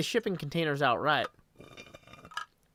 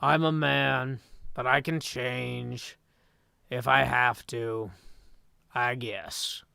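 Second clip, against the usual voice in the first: lightly put-on Canadian accent, slow and low; a hint of Canadian accent, drawn out slowly; 6 semitones lower, much slower than usual. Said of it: "that's the best Canadian accent I can do".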